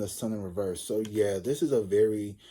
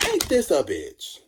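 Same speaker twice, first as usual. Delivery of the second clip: louder, higher, slow; exasperated; 5 semitones higher, 6 dB louder, slower than usual. Retold or imitated. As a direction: drag it out in disgust. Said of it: "she was like".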